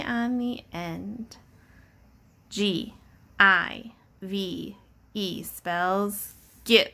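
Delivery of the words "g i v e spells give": slow spelling. Shown as a demonstration. Teacher spells the word slowly for the class.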